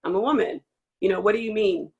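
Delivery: a player challenging an ignorant teammate, firm; modeling a pushback. Pretend. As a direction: stop them mid-sentence with firm pushback. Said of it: "that needs to be, like, addressed".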